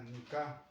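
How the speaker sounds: Nica stressed on the final syllable, ni-CA; stress on last syllable. Shown as a demonstration. Teacher shows the exception, final stress on Nica. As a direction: put the weight on the end of Nica. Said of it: "ese Nica se acentúa al final".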